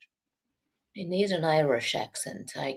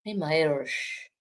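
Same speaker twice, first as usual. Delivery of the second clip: attempted Irish accent. Shown as a demonstration. Playing a little Irish girl, lightly attempted Irish accent. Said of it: "I can do it a little, a little Irish accent".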